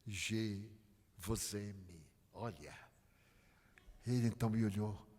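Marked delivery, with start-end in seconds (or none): 0.1-2.1 tender French. Retold or imitated. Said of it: "E então eu caprichei".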